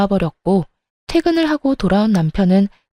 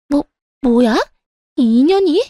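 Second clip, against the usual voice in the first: shocked outrage; 6 semitones higher, 3 dB louder than usual. A narrator's reading. Insulted mid-quarrel, stammering.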